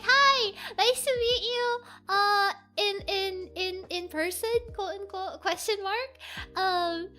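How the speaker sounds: hesitant, halting introduction; retold shyness. Streamer meeting a followed VTuber, bashful. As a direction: stammer lightly through meeting someone admired. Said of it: "then I was so shy".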